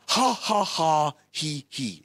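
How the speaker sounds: light imitation of a driver's fixed laugh, three ha's then two he's; imitating John's laugh. Preacher imitating his safari driver's laugh, mild mock laugh. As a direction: lightly mimic the laugh, falling off at the end. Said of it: "He laughed the same way every single time".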